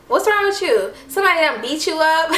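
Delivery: high-pitched comic imitation of alarm; hammed-up concerned demand, high; godmom's alarmed reaction. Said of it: "My godmom had the hilarious, like, the most funniest reaction".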